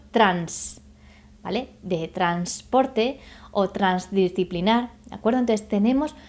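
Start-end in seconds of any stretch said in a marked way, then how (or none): 0.1-0.8 "trans" said on its own, lower; "trans" set apart as a sample syllable; syllable demo. Shown as a demonstration. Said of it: "Por ejemplo".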